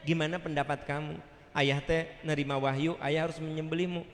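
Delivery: soft, unhurried consultation; gentle father asking. Acted. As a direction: put it to your child quietly. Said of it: "Tapi Nabi Ibrahim nanya".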